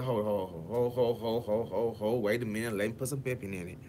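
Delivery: lightly acted cool-down, pitched a touch low; mildly calming. Retold smooth calming of aggressor.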